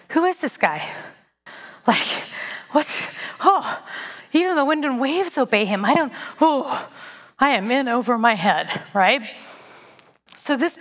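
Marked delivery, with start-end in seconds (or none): 0.1-8.8 lightly acted stunned wonder; awestruck disciples. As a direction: gasp at what you just saw, half-whispered. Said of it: "They literally are like".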